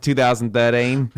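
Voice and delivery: put-on slow, amateur Australian accent; stereotypical Australian accent. American attempting his friend's accent, drawn-out fake Australian. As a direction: stretch it out in mock Australian. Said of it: "trying to sound stereotypical Australian".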